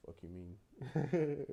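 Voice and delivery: loud and slow, each word stretched out; defiant outburst. Retold or imitated. Talking back to the manager who wants him gone, loud drawn-out defiance. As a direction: throw it back in his face, drawn out.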